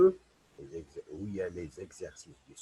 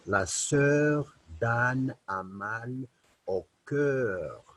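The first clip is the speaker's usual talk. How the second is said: slow reading aloud; 3 dB louder than usual. Shown as a demonstration. Teacher reading example sentences to children, slow and careful. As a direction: read each sentence slowly, words spaced for children.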